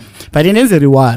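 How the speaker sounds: choked-up, emotional voice. Making a heartfelt plea for football to come back: emotional. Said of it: "Sorry for being emotional".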